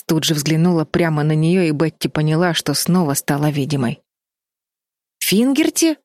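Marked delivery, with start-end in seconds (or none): 5.2-6.0 high gasping cry of surprise; startled gasp at the name; a sudden high gasp of shock. A narrator's reading. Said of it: "ахнула Флис".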